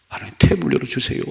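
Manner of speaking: high, breathy broken plea; wailing whisper. Retold or imitated. Hannah repeating her prayer in tears, whispered. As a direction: plead until the voice gives out. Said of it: "반복하고 통곡했어요".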